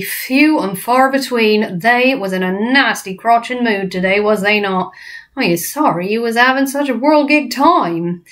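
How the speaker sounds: lightly voiced kindly giant, sorry; the BFG. BFG apologising to Sophie, lightly voiced. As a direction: comfort her in his odd giant grammar.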